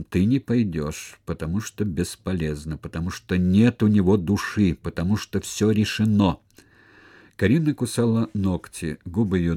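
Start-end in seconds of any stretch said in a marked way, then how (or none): 0.0-6.4 grind the words out; a touch of grim resolve to Karina; grated out. Acted. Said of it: "проскрежетал он".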